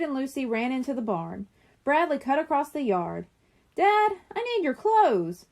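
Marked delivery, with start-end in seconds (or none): 3.7-5.5 high, loud, slow yell to Dad. A narrator's reading. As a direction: call out to Dad as he runs into the kitchen. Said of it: "he yelled".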